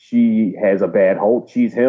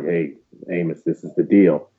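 whispering, lower pitch; 4 semitones lower than usual. Retelling how one character quietly tells another the news: imitating a whisper.

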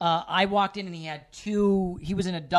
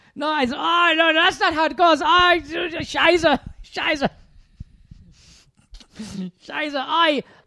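fake German accent, higher and louder; 10 semitones higher, 6 dB louder than usual. Imagining what a German man in two arm casts would say: put-on German accent. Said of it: "Is he German?".

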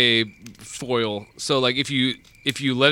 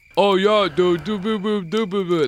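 cartoon speech impediment, higher pitch, slower pace; 6 semitones higher than usual. Imitating how a big man he knew talked, in an Elmer Fudd-like voice. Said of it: "he sounded like fucking Elmer Fudd".

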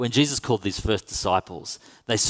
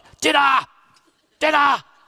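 very high, shrill, loud full-on yelling; 8 dB louder than usual. Retelling calling the fellas down to a dinner getting cold: retelling a shout. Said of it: "no need for shouting".

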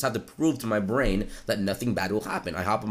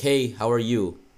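put-on nervous voice, slower. Retelling greeting a girl they hadn't talked to much, imitating own nervous self. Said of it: "I said it very very nervous".

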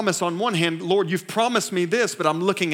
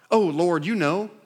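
sarcastic delivery. Retelling Ezekiel's reply to God, acting out Ezekiel's sarcasm. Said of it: "you almost hear this sarcasm erupt".

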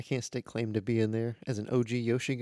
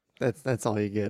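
normal talking voice

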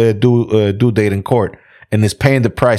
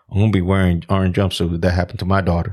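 put-on dead-serious, low, flat deadpan; 5 semitones lower, 5 dB quieter than usual. Speaker quoting a man who said it dead serious: mock deadpan delivery.

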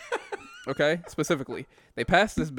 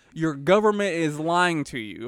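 usual speaking voice

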